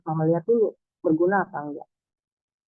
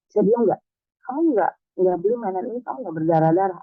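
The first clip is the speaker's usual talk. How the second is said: put-on snapping at child; 3 semitones higher, 3 dB louder than usual. Mother snapping at her whining child in a shop, angry. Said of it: "oh saya agak ngebentak".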